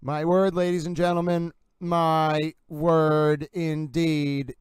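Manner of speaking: loud, slow, drawn-out amazement; dramatic astonishment. Real, not acted. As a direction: savor each word in shock. Dramatic reaction after clip.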